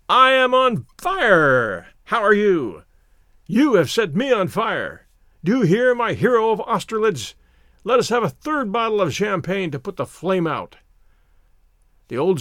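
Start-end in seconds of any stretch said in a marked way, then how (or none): 0.1-10.8 burn with tipsy glee; mad exhilaration. Acted. Drunk narrator begging the old soldier for champagne, wildly excited. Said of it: "in a mad state of exhilaration".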